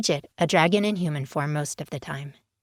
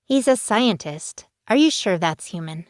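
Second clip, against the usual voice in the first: put-on teasing teen; 3 semitones higher than usual. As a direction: tease her friend about her man.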